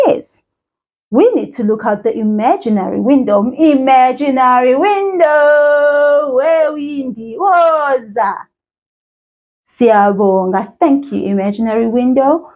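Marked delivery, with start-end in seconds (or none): 3.5-8.5 calling out. Pretend. Calling the imaginary window.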